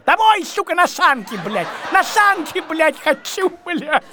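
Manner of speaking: громкий крик, выше обычного; заорать «Домой, нахуй!». Retold or imitated. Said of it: "первый я, конечно, закричал". (громко кричит от отчаяния)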